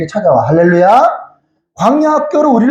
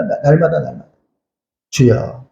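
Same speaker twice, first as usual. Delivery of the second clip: normal talking voice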